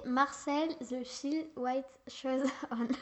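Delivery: put-on slow, careful English accent on the title; a kid's best try at an English accent; French child attempting an English accent. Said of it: "Tu vas nous sortir ton plus bel accent anglais".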